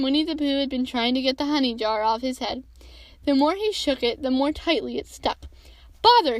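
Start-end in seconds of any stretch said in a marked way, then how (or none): 6.0-6.4 loud, high burst of frustration; sudden vexed outburst; exasperated exclamation. A narrator's reading. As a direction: blurt it crossly, pitched up. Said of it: "he said inside the jar".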